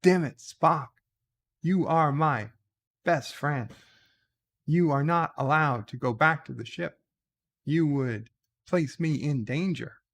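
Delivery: lightly voiced indignant captain, halting delivery; mock-dramatic rebuke, broken into chunks; Captain Kirk. Captain forbidding his best friend to leave, mock indignant. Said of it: "Kirk is like".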